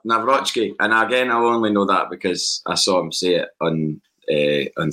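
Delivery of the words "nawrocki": Nawrocki as /nəvɹɔʃki/, Nav-ROSH-ki, stress on ROSH; teaching Nawrocki, Nav-ROSH-ki; correct name. Shown as a demonstration. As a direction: model Nawrocki clearly for the other host. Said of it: "teach Paul John how to say Mike's surname".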